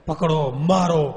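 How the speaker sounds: slow, eerie ghost chant from the well; menacing ghost horde crying for blood; ghosts shrieking. A narrator's reading. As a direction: draw it out like a mob of ghosts. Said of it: "રીડિયા રમણ કરે".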